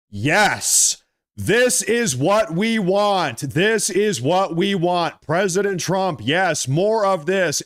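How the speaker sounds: drawn-out, emphatic yeses of approval; elated, emphatic rallying approval; gleeful cheering. Real, not acted. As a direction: cheer it on, stretching the words out. Cheering on the president's insult.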